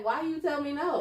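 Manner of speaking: high, half-laughing mock wail; mock crying. Retelling being refused fries, mock crying. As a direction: whine it like a hurt, refused child. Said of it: "and I cried".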